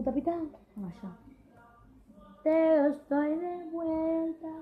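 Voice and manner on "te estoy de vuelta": high, slow squeaky bird voice; crying bird voice. Real, not acted. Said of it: "Ignoren mi voz de pájaro llorando".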